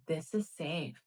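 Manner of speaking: soft, calm inner voice; understated, soothing self-talk; reassuring self-talk. Retold or imitated. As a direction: quietly reassure a scared body. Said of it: "this is all my internal dialogue".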